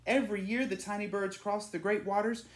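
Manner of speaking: a man in the churchyard marvelling at the swallows; villager telling the legend. A narrator's reading. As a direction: tell it like a treasured local tale. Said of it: "said one man".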